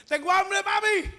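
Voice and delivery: put-on revived girl asking her mother for food in a high child voice; little girl's voice. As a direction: sound like a small hungry child.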